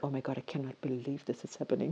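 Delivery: mock disbelief. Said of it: "really be like".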